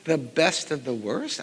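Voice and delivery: a high, loud yay, then a slow wry question; mock-celebrate, dripping irony; sarcastic mock cheer. Composer joking about being last cut, sarcastic cheer.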